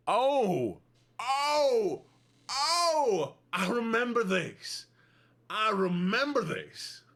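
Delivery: high, slow voice from back in the throat; put-on throaty voice. She plays a character reacting for her chat, high, throaty and slow. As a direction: pull the sound back into the throat and draw it out. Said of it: "I gotta do this voice now".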